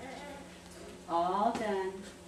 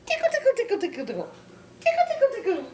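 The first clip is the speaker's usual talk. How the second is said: giggly tickle attack; 8 dB louder, much faster than usual. Real, not acted. Adult tickling a baby.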